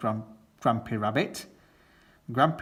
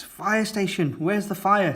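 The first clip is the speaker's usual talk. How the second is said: high, urgent fire station voice, pitched up; Miss Rabbit; 8 semitones higher, 4 dB louder than usual. Acted. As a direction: answer the call like a keen lightly voiced fire chief. Miss Rabbit answers the phone.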